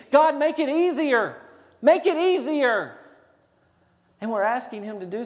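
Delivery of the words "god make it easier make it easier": high, raised cry to God; mock screamed plea. Preacher voicing churchgoers pleading with God, high mock scream. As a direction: cry out a demanding prayer, hammed-up. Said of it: "we are screaming".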